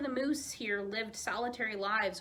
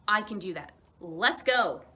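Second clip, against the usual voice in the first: eager yes; 7 dB louder than usual. Acted. Child accepts race eagerly.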